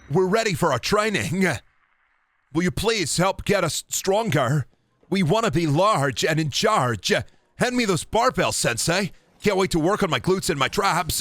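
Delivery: high, put-on voice addressing a sensei; eager pupils.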